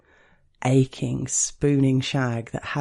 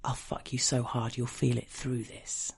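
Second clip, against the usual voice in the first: whispered; 9 dB quieter than usual. A narrator's reading. Partner to narrator on the train, whispered in the ear. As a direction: drop right down as if into someone's ear. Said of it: "He whispered delicious things in my ear".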